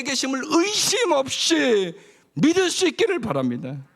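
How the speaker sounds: high, loud sermon proclamation; preaching at full force. Acted. Pastor urging the congregation to believe, full preaching force.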